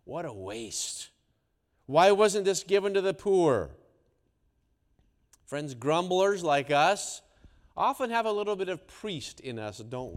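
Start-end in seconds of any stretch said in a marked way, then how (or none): 0.0-3.8 murmuring grumble. Acted.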